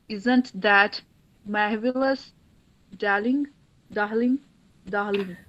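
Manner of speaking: Isn't That Marvelous, Darling with no r, a drawn-out Darling. Retold or imitated. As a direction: say Darling as dahling, lightly mocking the upper class. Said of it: "individuals who seem to have no ra sound". (बिना र के, नखरे से Darling)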